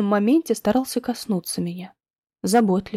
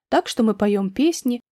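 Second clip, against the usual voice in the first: plain reading voice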